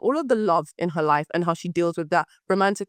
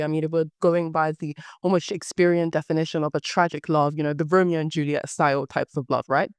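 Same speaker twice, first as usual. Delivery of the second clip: low husky hoarse voice; 5 semitones lower than usual. Real, not acted. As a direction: speak through a hoarse, husky throat. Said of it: "my voice just became really sexy and hoarse".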